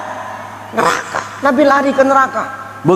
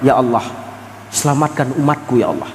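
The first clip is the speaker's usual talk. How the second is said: tearful prayer; 7 semitones lower, 5 dB quieter than usual. Retold or imitated. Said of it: "Menangis di bawah aras, berdoa".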